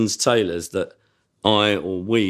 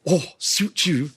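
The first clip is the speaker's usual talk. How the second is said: leering tailor; 5 semitones higher, slower than usual. Acted. Catchphrase performed.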